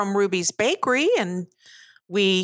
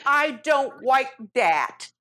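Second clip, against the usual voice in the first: laughing; slower than usual. Real, not acted. Laughing while speaking.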